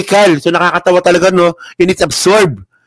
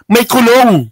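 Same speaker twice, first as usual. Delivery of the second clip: mocking shout; 6 semitones higher than usual. Taunting senator, rising to shout.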